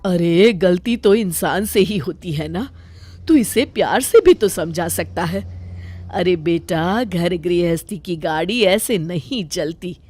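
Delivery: mother scolds son, protects daughter-in-law; scolding mother. Acted. (बेटे को समझाती माँ, नीची आवाज़)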